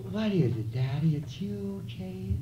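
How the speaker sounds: innocent wide-eyed question; naive. Acted. Naive woman asking her man, innocent. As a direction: ask it like a child who never heard of it. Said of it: "with the very first flower of the thought of naivety".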